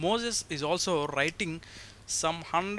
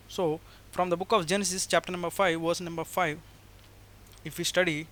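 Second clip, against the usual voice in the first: louder preaching voice, building fervour over the verse list; 3 dB louder than usual. Acted. Preacher reading Genesis verses to his brothers and sisters, louder, fervent. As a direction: proclaim each verse to the congregation.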